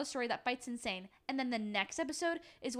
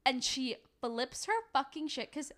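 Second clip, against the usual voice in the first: outraged; 6 semitones higher than usual. Real, not acted. Outraged retelling of the fight.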